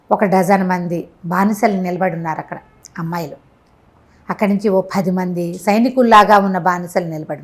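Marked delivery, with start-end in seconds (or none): none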